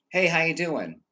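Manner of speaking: high, loud imitation of a breezy hello; mock greeting. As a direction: call out a token greeting, imitating others. Repeats the imitated routine greeting.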